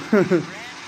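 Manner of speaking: brief knowing laugh; little laugh after a teasing hint; short chuckle. Real, not acted. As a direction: chuckle at your own hint. Chuckles at his own hint.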